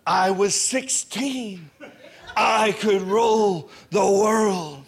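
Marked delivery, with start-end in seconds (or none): 2.4-4.8 cocky shout. Retold or imitated. Teen bravado on the ride.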